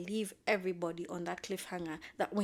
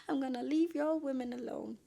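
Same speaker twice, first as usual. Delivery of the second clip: higher, louder mock huff; acted exasperation, pitched up; exasperated exit line; 5 semitones higher, 5 dB louder than usual. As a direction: announce a huffy exit. Acted storming-off line, redone.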